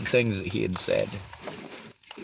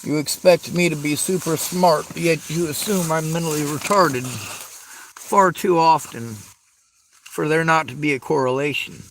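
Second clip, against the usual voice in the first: louder, higher indignant rant; angry rant; 3 semitones higher, 4 dB louder than usual. Real, not acted. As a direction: push it out, fed up. Ranting about being underestimated.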